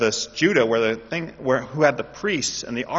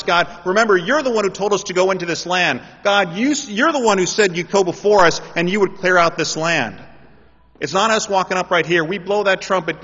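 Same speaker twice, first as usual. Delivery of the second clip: loud, pleading call to God; fervent prayer; 5 semitones higher, 5 dB louder than usual. Acted. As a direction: cry out to God, rising in fervour. Preacher voicing fervent prayer.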